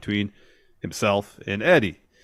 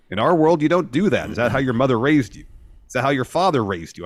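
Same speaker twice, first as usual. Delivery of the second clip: loud, raised, scolding promo; mock angry Ortiz; 4 semitones higher, 5 dB louder than usual. Ortiz scolding Eddie in the ring, a hint of anger. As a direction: scold him like a wrestling promo. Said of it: "And Ortiz says".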